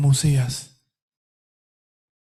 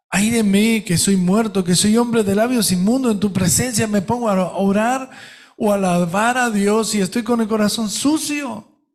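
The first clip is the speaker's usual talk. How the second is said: pleading prayer; 4 semitones higher than usual. Acted. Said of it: "le digo, "Señor".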